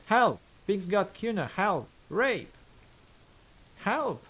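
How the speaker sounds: high, loud panicked cries of "Help!"; child shouting for help. Acted. Boy yelling at the windows for help, loud and high. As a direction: scream it toward the windows. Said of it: "the child shouts at the windows".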